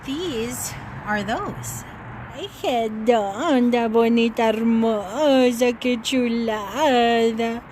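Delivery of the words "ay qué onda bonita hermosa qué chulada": slow, louder admiring Spanish to a pet; doting Spanish coo. Real, not acted. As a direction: stretch each Spanish word out, adoring her.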